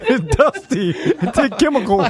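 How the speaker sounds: laughing. Real, not acted. Laughing at taste of incense.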